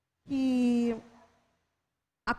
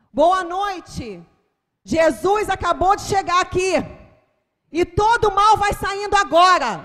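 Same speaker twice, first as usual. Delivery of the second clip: loud, high proclamation; commanding shout; 7 semitones higher, 10 dB louder than usual. Retold or imitated. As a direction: announce it so the whole yard hears. Confronting the family at the gate.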